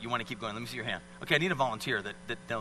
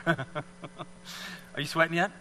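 laughing question; 3 dB quieter, much slower than usual. Real, not acted. Laughs while asking volunteer.

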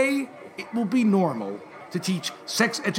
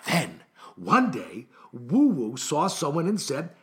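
slow storybook narration, lower start; story reading; 4 semitones lower than usual. Acted. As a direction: read it slowly to first graders. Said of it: "Let me repeat the sentence".

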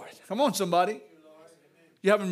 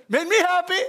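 laughing happily; 5 semitones higher than usual. Real, not acted. Laughing about happy dream.

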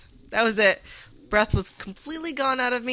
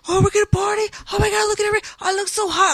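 much higher, airy mimic of a preening brother; mocking brother; 12 semitones higher, much faster than usual. Bride mimicking her excited brother in the limo, high mock voice. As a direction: play him as a vain goofball, pitched high. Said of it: "He's like".

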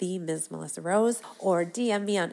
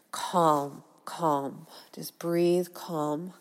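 slow, soothing calm; self-soothing; 4 dB louder, much slower than usual. Shown as a demonstration. Speaker calming herself when flustered, soothing. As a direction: talk yourself down gently. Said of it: "self-soothing in stress".

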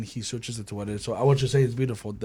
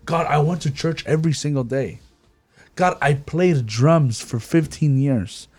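pleading churchgoer; 4 semitones higher, 6 dB louder than usual. Acted. Voicing youth pleading with God.

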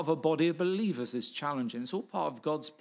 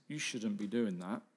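lower, softer inner voice; understated, hushed-down reproof; still small voice; 6 semitones lower, 5 dB quieter than usual. Acted. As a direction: drop to a small, quiet voice of conscience. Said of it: "It's that still small voice".

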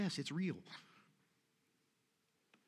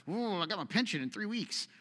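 lightly voiced, higher worried worker; mock excuse; 4 semitones higher than usual. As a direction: toss off the excuse like a nervous employee. Mocking a wavering believer.

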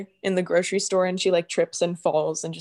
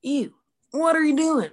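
put-on Western accent; 4 semitones higher than usual. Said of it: "a little bit of a Western accent".

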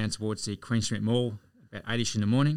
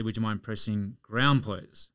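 a slow, polite, gentle request; very calm and nice; slower than usual. Retold or imitated. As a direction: ask nicely and patiently, no push. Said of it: "So I said very calmly, very nicely".

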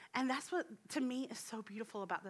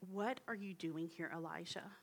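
tender; 3 semitones lower, 6 dB quieter than usual. Acted. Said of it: "that's such a tender".

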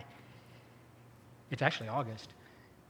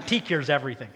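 laughing repeat; 2 semitones lower than usual. Real, not acted.

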